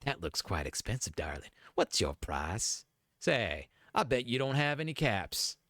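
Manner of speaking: put-on old lady voice. Old lady asking a traveller the price, old lady voice. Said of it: "the old lady".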